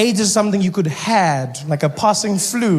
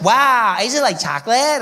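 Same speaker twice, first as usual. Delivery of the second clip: surprised; 4 semitones higher than usual. Retold or imitated. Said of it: "She's like".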